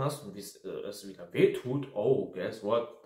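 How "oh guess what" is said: slow, drawn-out sarcasm; sarcastic. Real, not acted. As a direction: spell out the obvious, slowly and mockingly. Sarcastic aside in a rant.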